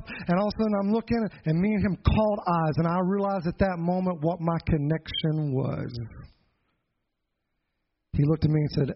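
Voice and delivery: normal talking voice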